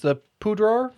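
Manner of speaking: "Poudre" with an AR ending, rising; unsure pronunciation. Shown as a demonstration. Host guesses at the river's name, "Poudre" as a rising POO-drar. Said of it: "I think that's how it's pronounced".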